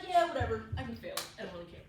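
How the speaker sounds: mock indifference. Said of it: "You go into a test, you're like".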